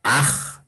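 "aj" with a long rasped h-sound at the end; demonstrated word ending. Shown as a demonstration. Teacher showing a spelling rule, sounding out "aj" in isolation. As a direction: sound out "aj", holding the final fricative. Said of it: "toda terminación".

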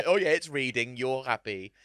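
mock soothing, lightly condescending; patronizing. Mocking people who spare feelings, patronizing. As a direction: humour them with fake reassurance. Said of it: "It's patronizing".

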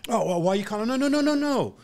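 very high squeaky sneer; mocking tough guy. Bouncer mocking the gang who cussed out Rico. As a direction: ham up the bully's bluster.

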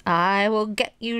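slow, drawn-out mock threat; mild storybook growl, taking it slowly. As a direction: stretch out a playful growl. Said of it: "she growled".

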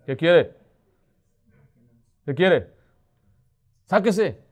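loud, rude shout at the door; angry doorstep reply. Pretend. Homeowner yelling at a preacher at the door, loud and angry. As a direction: bark at the unwelcome visitor. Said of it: "Puede que así sea la reacción".

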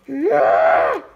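a short, low, barked "Nah!"; defiant shout. Acted. Toy fight, defiant refusal.

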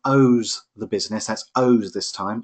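"owes" drawn out slowly for clarity; stress on owes. Shown as a demonstration. Tutor clarifying the word for the class, stress on "owes". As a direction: make "owes" stand out, stretched. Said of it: "O W E S".

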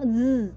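Z held as a voiced buzz; buzzing z sound. Shown as a demonstration. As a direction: make the Z vibrate. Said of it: "la Z que está por ahí se vibra". (la Z vibrada)

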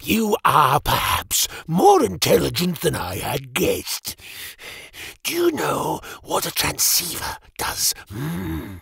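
high, soft, questioning menace; sly mage. Acted. Mage quizzes Jim with soft, high menace. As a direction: toy with the boy.

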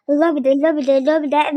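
mock-shouting the word over and over; hammed-up loud repeat of lobide; imitating a yell. Retelling how her friend yelled lobide, mock shouting. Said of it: "Erva kankam dedi ki".

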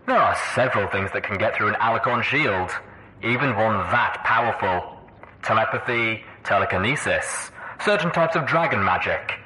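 measured villain lecture over loudspeakers; Red Eye. A narrator's reading. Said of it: "Red Eye's voice proclaimed from the dozen speakers".

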